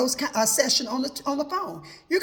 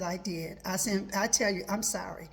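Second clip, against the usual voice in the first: much softer, hushed apology; apologising to the friend, quiet and hushed; soft confession; 6 semitones lower, 7 dB quieter than usual. Retold or imitated. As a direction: say sorry barely above a breath.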